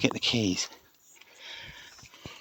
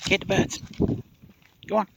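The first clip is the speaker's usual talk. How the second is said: excited urging; 10 semitones higher than usual. Real, not acted. Urging the dog on.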